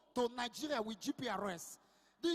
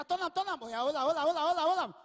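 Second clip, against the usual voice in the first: yelling instructions; 2 semitones higher, 6 dB louder than usual. Retold or imitated. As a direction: call to whoever turns the antenna pole. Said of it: "You go dey hear".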